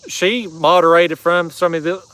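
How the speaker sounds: tripping over the words; stumbling, losing the sentence; stuttering. Real, not acted. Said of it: "I'm stuttering".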